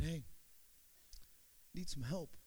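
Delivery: low, very soft retold plea; quiet fight voice. Preacher imitating a caller asking for help, hushed fight voice. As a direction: ask for help softly, without yelling. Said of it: "he had the fight voice on".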